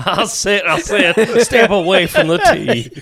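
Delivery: hammed-up Southern accent. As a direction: warn them in playful Southern, laughing. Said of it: "I perfectly encapsulated that accent".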